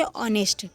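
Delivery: ऑनेस्ट said with the h silent, starting on the o; teacher models ऑनेस्ट without any h sound. Shown as a demonstration. शिक्षक छात्रों को ऑनेस्ट बताते हुए, h बिना बोले. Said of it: "यहाँ पे एच जो है साइलेंट है".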